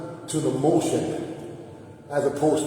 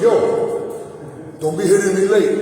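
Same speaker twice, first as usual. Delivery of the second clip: mock warning to the sparring partner, a bit louder; retold warning; 3 semitones higher, 4 dB louder, slower than usual. Coach warning his sparring partner, mock stern call. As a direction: warn him half-playfully not to hit late. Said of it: "when I said".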